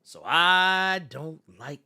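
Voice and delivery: slow, whispery imitation; movie villain quote. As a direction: draw it out under the breath like a movie villain.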